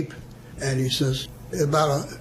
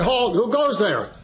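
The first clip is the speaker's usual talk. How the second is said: correct challenge; 6 semitones higher than usual. Shown as a demonstration. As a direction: give the textbook version firmly. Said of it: "you're supposed to say".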